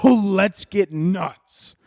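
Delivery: high, very drawn-out party cry; mock party hype. Nurse to friends on a Saturday out, mock party hype. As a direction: stretch it out like a mock rallying call. Acting nurses hyping a night out.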